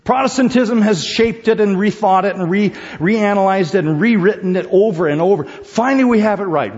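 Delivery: high, loud mock of smug preachers; mocking quote. Preacher mocking modern Protestants' smug claim, high and loud. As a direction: send up the self-satisfied claim. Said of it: "People say".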